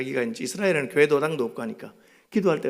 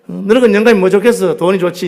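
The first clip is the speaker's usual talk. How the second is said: loud teasing jab; 5 semitones higher, 13 dB louder than usual. Acted. Husband pressing his wife.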